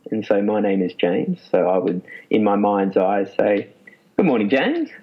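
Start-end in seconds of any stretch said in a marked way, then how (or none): 4.2-4.9 a friendly good morning to himself; kindly self-greeting, as opposed to neutral. Shown as a demonstration. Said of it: "in a friendly voice".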